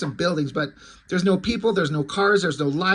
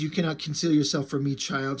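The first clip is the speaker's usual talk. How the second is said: mysterious voice; 5 semitones lower, 4 dB quieter than usual. Retold or imitated. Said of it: "she hears a voice says".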